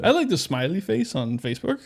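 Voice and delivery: lightly put-on old boomer; a hint of an out-of-touch boomer. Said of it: "you always do this voice".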